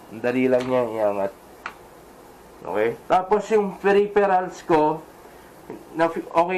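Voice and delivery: muffled behind closed visor; speaking through chin bar; inside full-face helmet. Real, not acted. Seen 3: Helmet worn throughout; visor closed, briefly lifted around 5-6 seconds.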